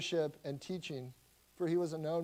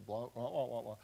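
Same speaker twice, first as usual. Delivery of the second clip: Charlie Brown teacher wah; 4 semitones lower than usual. Retold or imitated. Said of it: "doesn't matter what the teacher".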